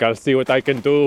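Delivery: lightly imitated Austrian Arnold accent; a quick, understated Austrian accent like the big action star. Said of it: "he has Arnold's exact accent".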